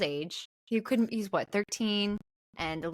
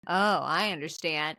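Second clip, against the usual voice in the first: creepy suggestive; 7 semitones lower than usual. Retold or imitated. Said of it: "wiggles his eyebrows".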